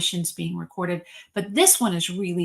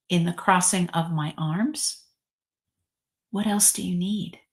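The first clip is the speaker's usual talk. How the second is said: reverent reading. Shown as a demonstration. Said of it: "I'm gonna actually read this message".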